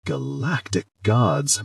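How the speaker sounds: slow, drawn-out exasperated moan. Acted. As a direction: groan it out, fed up. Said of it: "with an exasperated moan".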